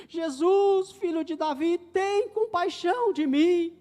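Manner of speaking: shouting plea. Acted. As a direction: cry out slowly like the blind beggar. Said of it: "E Bartimeu lá gritando".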